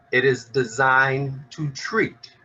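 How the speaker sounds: slow, deliberate build landing on "treat"; stress on treat. Real, not acted. Advocate defining juvenile justice to an audience, stress on "treat". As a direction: lean on "treat" as the key word. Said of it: "keyword is treat".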